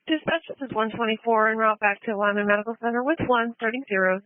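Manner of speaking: tinny radio transmission; like a voice on a two-way radio; over a radio. Real, not acted. Field unit calling on radio.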